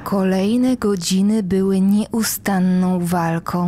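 ordinary delivery, nothing marked

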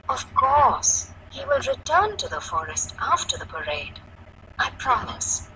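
put-on soft promise to a worried child; reassuring. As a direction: reassure gently. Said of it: "The woman's voice was reassuring".

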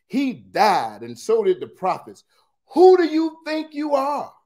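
emphatic accusation climbing to a high, loud outburst; indignant challenge. Acted. The Jews confront Jesus over Abraham, mounting indignation. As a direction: build to an incredulous, affronted demand.

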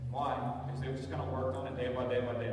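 ordinary delivery

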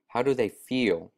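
put-on boy asks brightly, stress on do; eager boy asking how do they feel; eager question. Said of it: "asked the boy".

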